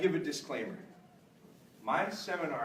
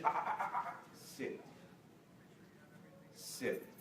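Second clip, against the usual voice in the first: gentle correction; 10 dB quieter than usual. Retold or imitated. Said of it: "I wasn't too hard on her".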